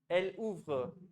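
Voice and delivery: एल उव्र with ऊ and व्र blended; एल उव्र said in French; French elles ouvrent. Shown as a demonstration. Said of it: "ओयू को अगर ऊ पढ़ते हैं". (फ्रेंच में एल उव्र)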